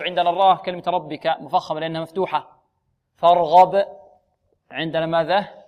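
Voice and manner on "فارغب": فارغب loudly with thick ر and غ; heavy raa. Shown as a demonstration. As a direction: make ر and غ full in فارغب. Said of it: "الراء مفخمة والغين". (نطق فارغب بتفخيم الراء والغين)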